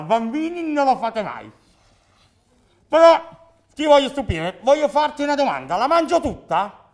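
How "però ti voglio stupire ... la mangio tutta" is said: annuncio da mago. Acted. Annuncio teatrale del mago.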